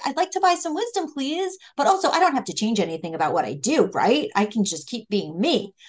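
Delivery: mock-sweet plea that trails into self-excuse; naive fool. Teacher voicing the fool who won't change, a hint of mock innocence. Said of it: "Who's like".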